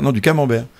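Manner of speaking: "camembert" front-stressed, falling at the end; stress on first syllable. Shown as a demonstration. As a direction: correct them, punching the "ca" of "camembert". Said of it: "en accentuant le début".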